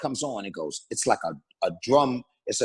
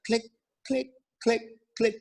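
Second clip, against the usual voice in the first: evenly spaced clicks, higher at first; imitated click track; 7 semitones higher, 5 dB quieter than usual. Shown as a demonstration. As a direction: say each one like a metronome tick. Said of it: "a click track".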